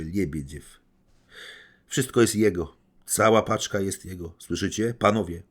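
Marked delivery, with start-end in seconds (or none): 1.9-5.4 proclaiming. Acted. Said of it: "oznajmiła Anastazja Filipowna".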